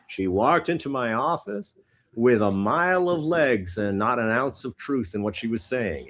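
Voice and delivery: lightly voiced hard-boiled narrator; noir detective. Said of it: "they're saying".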